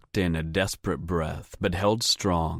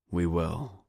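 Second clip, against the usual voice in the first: gentle; 3 dB quieter than usual. A narrator's reading. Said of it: "I offered in a gentle voice".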